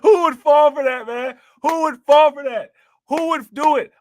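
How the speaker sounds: high, loud, half-crying with laughter; laughing disbelief. Real, not acted. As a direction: shout it out in tearful laughing disbelief.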